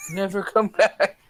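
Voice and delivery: high-pitched mock call; mock parting cry. Player to the departing toughs, high mock parting cry. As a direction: call it after them in a high voice. Same parting line repeated louder.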